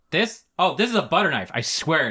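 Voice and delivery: high-pitched feigned innocence; overdone protest of innocence; defensive excuse. Acted. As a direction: pitch it up as if caught red-handed. Caught man excuses his dagger.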